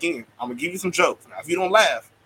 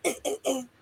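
imitated grunts; 10 semitones higher, 6 dB quieter than usual. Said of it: "he was like".

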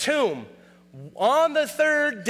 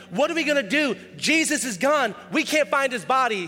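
higher-pitched mock panic; freaking out; 4 semitones higher than usual. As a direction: act out disciples in a mild flap. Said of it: "They're freaking out".

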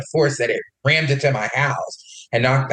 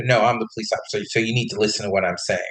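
fast, lower, mock condescending cop; 4 semitones lower, much faster than usual. Cop talking down to the homeowner, a light condescending rattle. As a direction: rattle off a hint of a bossy cop. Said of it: "the cop was being like a dick".

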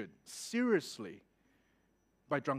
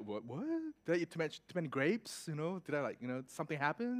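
bewildered; 2 semitones lower, 8 dB quieter, faster than usual. Retold or imitated. Acts out his bewilderment at officer.

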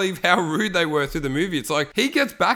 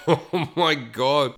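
laughing; 2 semitones lower, much slower than usual. Real, not acted. Laughing reaction while reading.

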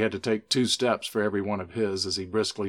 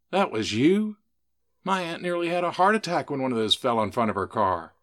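higher and louder, caught off guard; shocked outburst; 6 semitones higher, 5 dB louder than usual. Acted. Brandy learns Stan dropped the pumpkins, shocked and loud. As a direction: blurt it out in disbelief.

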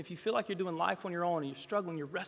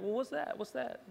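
put-on high, softer small-child voice; lightly mimicked child's repeated question; little boy; 6 semitones higher, 5 dB quieter than usual. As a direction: imitate a pestering little kid. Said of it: "if he said it one time".

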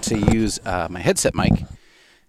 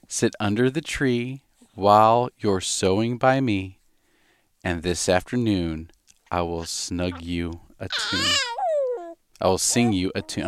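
put-on reading a poem to a baby. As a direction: read it gently to the baby.

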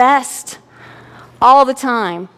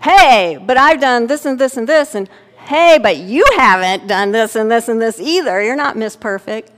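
defensive retort; 3 dB louder than usual. Retold or imitated. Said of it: "natural reaction is to defend themselves".

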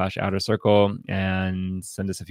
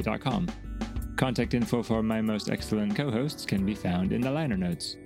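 softer, measured credits read; scripted podcast outro; 8 dB quieter than usual. Acted. Host asking listeners to support the show, scripted outro read.

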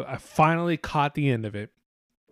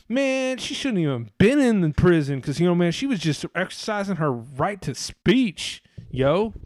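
a rapper's voice; 2 semitones higher than usual. Pretend. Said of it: "why a rapper would be defending her".

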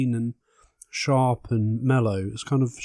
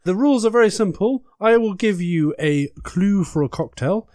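campy drag queen; 5 semitones higher, 4 dB louder than usual. Acted. Host explains rules.

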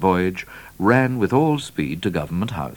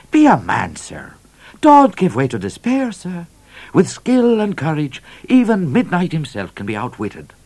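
high, forceful trooper with dropped "sir"; rally him, high and punchy; rousing trooper; 10 semitones higher, 5 dB louder than usual. A narrator's reading. Trooper urging the governor not to despair, rousing.

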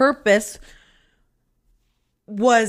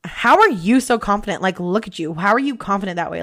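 incredulous put-down; 2 semitones lower, faster than usual. Retold or imitated. What the speaker heard in people's question, incredulous judgment. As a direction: imitate a doubting critic, hitting "you". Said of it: "to me, that's like".

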